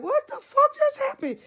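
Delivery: very high, startled squeal; freaking out. Retold or imitated. Driver reacting to the girl's scream, acted freak-out. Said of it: "I'm, like, freaking the fuck out".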